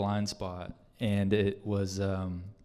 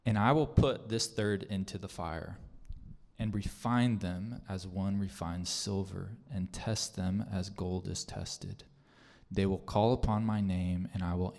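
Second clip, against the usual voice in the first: scripture reading. Acted. Preacher reading a promise to the congregation, measured. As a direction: read the verse with weight.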